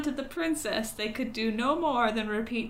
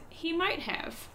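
crow voice; 6 semitones higher, 4 dB quieter, slower than usual. Acted. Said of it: "and the crow says".

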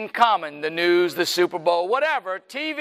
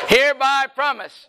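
oath leader call; 2 semitones higher, 5 dB louder than usual. Shown as a demonstration. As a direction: lead the oath so the whole room can echo it. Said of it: "please raise your right hand and repeat after me".

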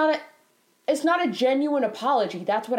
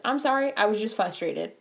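simple, sincere apology; genuine apology. Acted. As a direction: apologise plainly, letting it fall at the end. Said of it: "That's a genuine apology".

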